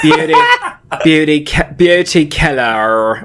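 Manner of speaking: halting, botched tries at "beauty killer"; struggling pronunciation. Retold or imitated. Mimicking her struggle with the accent, halting mispronunciation. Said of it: "she couldn't pronounce, like, killer".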